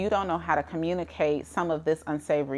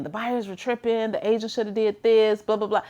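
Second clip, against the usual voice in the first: mock complaining; 5 semitones higher than usual. Mimics an emotional agent complaining.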